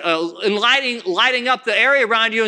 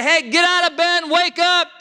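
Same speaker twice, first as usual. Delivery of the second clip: high, mildly raised wake-up yell; mock boot-camp yell; 8 semitones higher than usual. How he does not wake you, mock harsh yell. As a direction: imitate a drill sergeant rousting recruits, not full force. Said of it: "start screaming at you".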